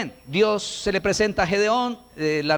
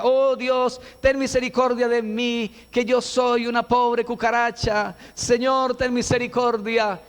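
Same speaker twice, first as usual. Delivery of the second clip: mock pitiful prayer; 4 semitones higher than usual. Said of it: "había uno por allá que decía".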